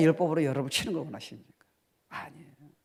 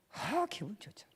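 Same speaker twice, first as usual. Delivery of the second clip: whisper; 6 semitones higher, 7 dB quieter than usual. Real, not acted. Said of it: "whispered aside".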